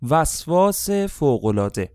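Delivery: slow, loud and high, every syllable weighted; slow loud emphatic announcement; emphatic answer. Shown as a demonstration. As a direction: hammer the answer home. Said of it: "دقت کنید، این دو کلمه".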